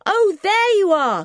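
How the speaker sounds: high, loud call across the barn. Acted. Anne calling to the boys in the barn, loud and high. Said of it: "called Anne".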